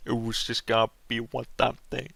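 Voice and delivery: put-on silly mix of British and Swedish accents; mock British-Swedish accent. Animator making fun of own line, British-Swedish accent mix. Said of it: "weird mix of, like, British and stupid".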